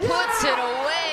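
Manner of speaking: high, loud, slow call; excited shout. Real, not acted. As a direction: shout the winner. Commentator calls the winner.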